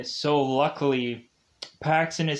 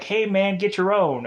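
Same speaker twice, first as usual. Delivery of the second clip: retold brush-off; 6 semitones higher, 4 dB louder than usual. Hoffman brushing Paxton off, retold.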